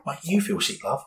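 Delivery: mock the woman, pitch up; retold sarcastic jab. Snapping back at the woman in the queue, sneering. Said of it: "a tirade of abuse".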